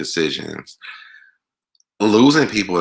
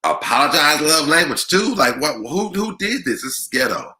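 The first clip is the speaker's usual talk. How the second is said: mock disbelief; 8 semitones higher than usual. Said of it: "I'm like".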